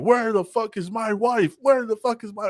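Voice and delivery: jealous husband with a shotgun demanding his wife; mock angry husband. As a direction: bark the question up high, dragging it out.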